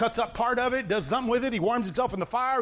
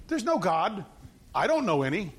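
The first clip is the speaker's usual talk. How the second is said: mildly mocking, matter-of-fact denial; sarcastic. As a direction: play God feigning ignorance. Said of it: "That is sarcasm".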